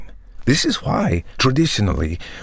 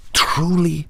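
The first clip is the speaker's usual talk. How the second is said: breathy high whisper on one word; 8 semitones higher than usual. Acted. Vampire pitching his vision, whispering for effect. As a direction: lean in and breathe it.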